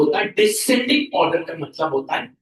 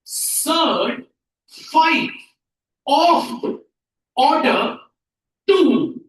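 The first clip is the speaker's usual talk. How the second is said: word-by-word reading; 5 semitones higher, much slower than usual. Shown as a demonstration. Teacher shows class how to read it, word by word. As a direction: model it one word at a time, firmly. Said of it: "तो हम इसको पढ़ेंगे".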